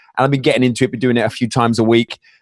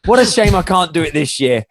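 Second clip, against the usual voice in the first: laughing, pitched-up fake sorrow; joking mock disappointment; 4 semitones higher than usual. Joking to friends about being turned back, laughing mock regret. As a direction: play it as a jokey, laughing pity-me. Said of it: "I was joking about this".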